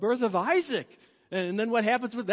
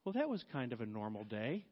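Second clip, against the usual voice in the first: soft relieved sigh; 10 semitones lower, 11 dB quieter than usual. Retold or imitated. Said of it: "you're like".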